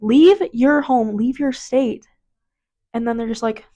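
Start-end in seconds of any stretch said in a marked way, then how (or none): 0.0-2.1 mock anchor urging evacuation; imitating news anchor. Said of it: "all these news people say".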